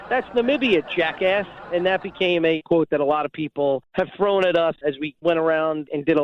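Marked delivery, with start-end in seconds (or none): 0.1-1.5 mocking retort. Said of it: "I said to him".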